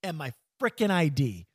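hiccuping mid-sentence; with hiccups. Real, not acted. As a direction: talk through the hiccups. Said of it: "I'm sorry about the hiccups".

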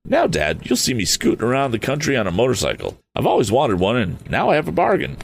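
Tom, fired up and youthful; eager young Tom. Acted.

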